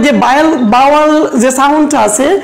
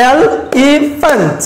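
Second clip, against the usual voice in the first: "এলিফ্যান্ট" split slowly into e-le-phant; slow syllable-clap demo; clapped syllables; much slower than usual. Shown as a demonstration. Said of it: "ক্লেপের সাহায্যে বলি".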